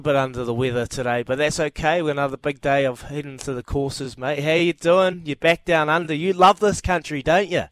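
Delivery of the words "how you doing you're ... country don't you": excited greeting. Real, not acted. Host greets Sir Ian on air.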